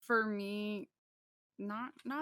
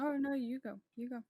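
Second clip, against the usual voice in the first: being tickled; 6 semitones higher, 4 dB louder than usual. Real, not acted. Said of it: "tickling her, jeez".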